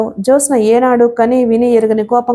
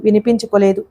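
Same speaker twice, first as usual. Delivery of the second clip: plain reading voice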